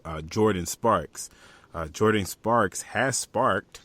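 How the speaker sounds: "sparked" dragged out slow and weighted; slow, proud delivery of the pun; wordplay emphasis. Shown as a demonstration. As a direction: lean on the pun in "has sparked". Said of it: "Y'all like how I did that?".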